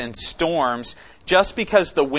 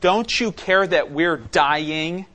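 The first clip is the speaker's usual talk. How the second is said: panicked plea, slowed down; 2 semitones higher, slower than usual. Retold or imitated. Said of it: "this is how they say it".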